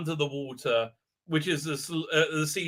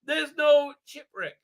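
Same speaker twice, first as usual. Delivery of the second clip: a very high, squeaky mock dog voice; 10 semitones higher, 3 dB louder than usual. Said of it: "so the dog said".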